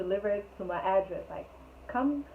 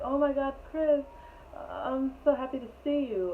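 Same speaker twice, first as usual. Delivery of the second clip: imitating excited girl; 6 semitones higher than usual. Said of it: "like she was excited to see him".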